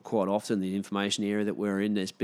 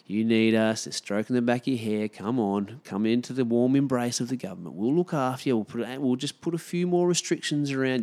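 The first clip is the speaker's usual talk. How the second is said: mock soothing government; 3 semitones higher than usual. Voicing the government's fake comfort.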